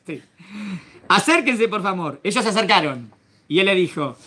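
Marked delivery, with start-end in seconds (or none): 1.1-2.2 gentle invitation. Acted. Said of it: "él quiere romper el hielo".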